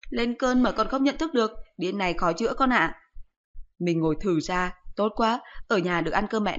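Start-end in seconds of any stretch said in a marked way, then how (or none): 0.1-3.0 voiced higher, a sharp nagging mum; higher-pitched mocking mother voice; scolding mother. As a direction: scold the son like an exasperated mother. Mother teasing son.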